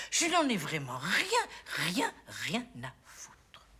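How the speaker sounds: very slow, sinking to a hush; deliberate, dwindling contempt; emphatic dismissal. Acted. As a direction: draw each word out, fading at the end. Mother rejects son's problems.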